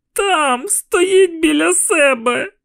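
put-on high, urgent child's cry; a scared boy pointing at the ghost; frightened boy pointing. A narrator's reading.

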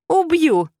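very high, loud creature screech; raging rabbit shriek. Acted. Rabbit hurling furniture and screaming at her. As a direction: scream the threat. Rabbit threatens while throwing.

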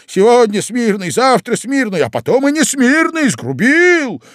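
высоко и громко, рывками; выкрикивает оправдания в бреду; лихорадочный спор. Acted. Прохарчин в бреду спорит. (больной Прохарчин кричит, оправдываясь)

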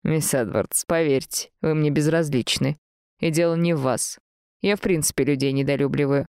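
subdued, indifferent man's reply; a hint of cool Mr Gabriel; lightly voiced aloof master.

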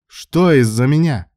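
very loud, high, drawn-out demand; barked. A narrator's reading. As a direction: bark the question at her angrily. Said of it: "рявкнул Илья".

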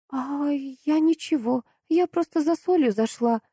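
high, slow, scared babbling; frightened babble. A narrator's reading. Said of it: "залепетала Антонина".

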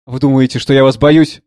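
suddenly calm. Acted. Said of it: "вдруг совершенно спокойно".

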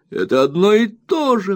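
very high indignant cry; very high indignant wife near tears; wife's cry. A narrator's reading. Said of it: "вскричала Дора".

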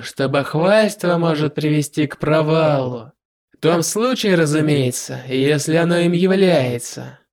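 slow, confident villain; slow smug demon lord. Acted.

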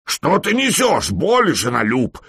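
high, slow barked reproach; barked rebuke. A narrator's reading. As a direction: bark it down at the brawler. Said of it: "гаркнул конунг".

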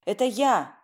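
frantic loud cry; hysterical shout. A narrator's reading. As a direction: yell it desperately into the receiver. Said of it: "истерически прокричала я в трубку".

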